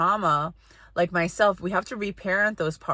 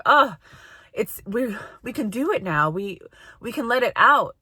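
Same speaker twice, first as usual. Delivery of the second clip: eager relief; 4 semitones higher than usual. Pretend. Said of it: "because they're like".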